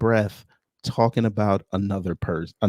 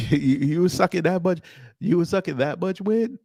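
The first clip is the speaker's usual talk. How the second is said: higher voice breaking into laughs; laughing hard; 7 semitones higher than usual. Real, not acted. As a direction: talk through real laughter. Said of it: "I was laughing so hard".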